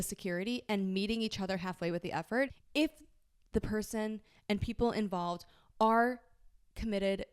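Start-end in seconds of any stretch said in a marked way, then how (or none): 2.7-7.2 stiff, mechanical robotic delivery. Real, not acted. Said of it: "why am I talking like a robot?".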